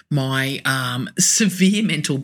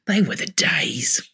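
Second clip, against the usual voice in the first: whispered aside; slower than usual. Real, not acted. Wistful aside repeated.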